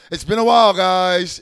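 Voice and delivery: big hearty it's been a while, called out loud; loud, warm welcome back; loud greeting. Real, not acted. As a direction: boom out "while" like greeting the crowd. Greeting fans after a long absence.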